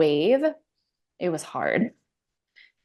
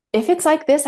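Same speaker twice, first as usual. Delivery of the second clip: higher, louder, a mock overwhelmed plea; imitating her own despair mid-labor; panicked inner voice; 8 semitones higher, 4 dB louder than usual. To herself in labor, a mild mock panicked plea. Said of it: "I didn't say any of this out loud".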